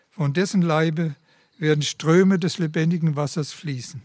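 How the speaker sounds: calm, earnest closing prayer; prayerful close of a sermon. Real, not acted.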